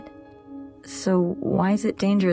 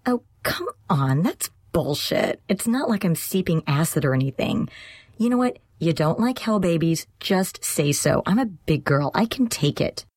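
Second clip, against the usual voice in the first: indignant, raised roommate voice; offended, higher-pitched challenge; bristling; 9 semitones higher than usual. A narrator's reading. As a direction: push back, affronted and emphatic. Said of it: "The other girl bristled at that".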